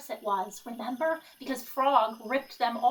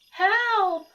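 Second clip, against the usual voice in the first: high, loud little yelp; cry for help; 10 semitones higher, 7 dB louder than usual. Acted. Toad blinking in the bright sun, crying help in a high yelp. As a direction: Toad squealing, dazzled by the sun.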